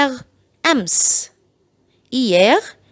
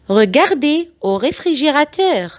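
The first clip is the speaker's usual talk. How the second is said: very slow, each syllable spelled out; slow it right down so parents can copy; slow model sentence for learners; slow teaching read; 3 semitones higher, much slower than usual. Shown as a demonstration. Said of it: "بعيد الجمل بالراحة جدًا".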